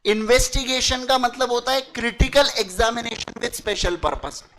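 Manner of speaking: slow dictation. Shown as a demonstration. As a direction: dictate the definition slowly. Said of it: "definition dictated". (परिभाषा धीरे-धीरे लिखवाना)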